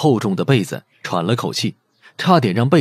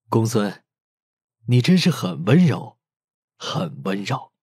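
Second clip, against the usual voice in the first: tender; 3 dB quieter, slower than usual. Acted. Bai Jintang thinking of Gongsun, tender murmur. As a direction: say it softly to himself. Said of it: "心也渐渐柔软".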